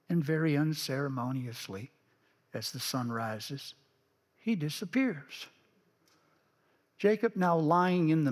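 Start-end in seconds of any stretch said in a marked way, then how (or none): none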